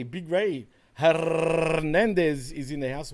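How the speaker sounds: slow drawn-out mock ring announcer, lightly done; ring announcer call. A host welcoming a viewer into the chat as a playful, slow ring-announcer intro.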